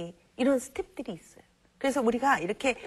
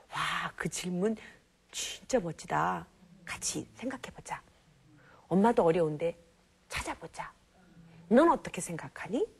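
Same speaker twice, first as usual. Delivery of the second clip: encouraging mother; 4 semitones lower than usual. Shown as a demonstration. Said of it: "이런 식으로 긍정적으로".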